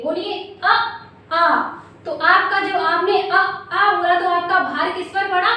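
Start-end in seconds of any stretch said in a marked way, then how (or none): 0.0-1.6 अ short then आ long from the throat; throat vowels अ and आ demonstrated for students; vowel demo. Shown as a demonstration. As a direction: say अ then stretch आ. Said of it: "तो आप इनका उच्चारण कीजिए".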